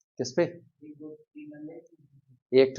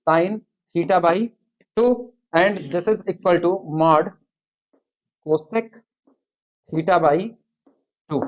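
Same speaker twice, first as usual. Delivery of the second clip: very slow, word-by-word dictation; much slower than usual. Acted. Teacher dictates the inequality for students to copy, very slowly. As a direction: spell it out slowly so the class can write.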